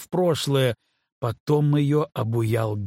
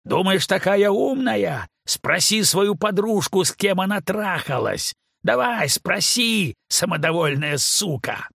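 angry shouting; 7 semitones higher than usual. A narrator's reading. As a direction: scream the taunts down the tunnel. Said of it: "Постепенно крики стихли".

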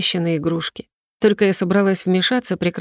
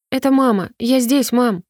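put-on boy calling back in a high voice; lightly voiced child shouting to his mother; 5 semitones higher than usual. Boy answers his mother's call, high calling voice. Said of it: "закричал ребёнок".

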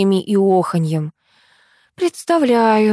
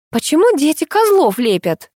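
rude caller; 8 semitones higher than usual. Acted. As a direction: bark the demand like a brash rich mother. Rude mother complaining on phone.

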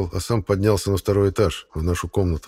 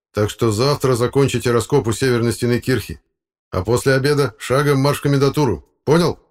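a hint of a stern professor, raised and firm; brisk instructions, higher and louder; lightly voiced stern boss; 6 semitones higher, 4 dB louder than usual. A narrator's reading. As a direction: give orders to a junior. Boss giving orders.

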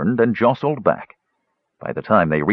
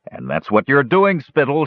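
shouting; 6 semitones higher than usual. Acted. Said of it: "shouted Flint".

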